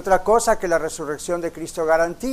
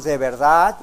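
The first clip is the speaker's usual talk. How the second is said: "de verdad" punched louder at the end; stress on DE VERDAD; 3 semitones lower, 4 dB louder than usual. Real, not acted. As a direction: lean firmly on "de verdad". Por qué hago tanto énfasis en que de verdad.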